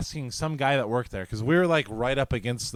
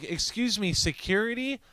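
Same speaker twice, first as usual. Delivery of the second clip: very high imitated woman's call; mock a complainer flagging down a guard; calling for security; 10 semitones higher than usual. Woman calling a guard who isn't there, high-pitched mock plea.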